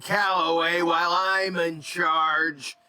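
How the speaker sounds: a hint of a hero standing guard; heroic threat. Player character defending Crim Calloway, slow and firm. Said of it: "And I say".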